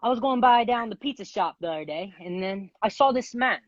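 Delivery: wobbly attempted British accent. Contestant improvising a thirty-second story for the host, in an attempted British accent. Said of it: "You gotta just talk in your British accent".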